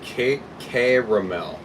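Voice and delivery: slow, puzzled three-syllable "caramel"; sounding out caramel. Real, not acted. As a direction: sound out "caramel" slowly as KAY-ruh-mel. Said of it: "Do caramel in Google and see how it's spelled".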